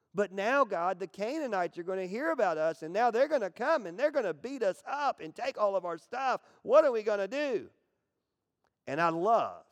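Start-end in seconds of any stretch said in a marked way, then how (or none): 0.2-7.7 high-pitched, whiny, worried complaining tone. Speaker acts out a worried man's complaint to God in a mock whiny voice. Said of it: "you almost picture him with this whiny voice".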